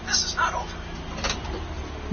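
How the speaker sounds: slow, high, menacing villain threat; cartoon villain. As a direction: drag out a cartoon villain's vow. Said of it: "You sound like a goddamn cartoon villain".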